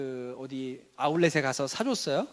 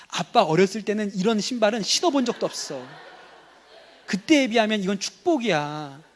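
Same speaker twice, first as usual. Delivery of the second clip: acted lecture, building louder; persuading father; 4 dB louder than usual. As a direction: play a dad growing insistent with his son. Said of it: "이게 친절한 아빠가 하는 거예요". (점점 목소리를 높여 훈계하는 아빠 연기)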